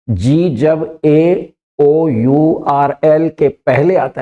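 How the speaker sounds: slow, deliberate listing of the letters; teacher reading a rule slowly; slow dictation. Shown as a demonstration. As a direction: spell out each letter slowly. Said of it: "फिर देखिए".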